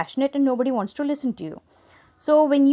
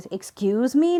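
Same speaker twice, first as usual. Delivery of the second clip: sarcastic; slower than usual. Shown as a demonstration. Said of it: "not like that".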